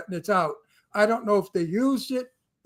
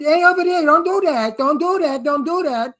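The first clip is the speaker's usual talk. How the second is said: higher, louder Brooklyn tough yelling; Brooklyn hood voice; 4 semitones higher, 4 dB louder than usual. Shown as a demonstration. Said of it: "I bring my voice up like this and I start to talk like this".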